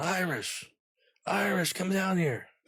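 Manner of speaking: play-acted shrill, very high hollering call. Retelling Charlie calling from his cell at the end, imitating Charlie yelling. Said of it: "And he's yelling".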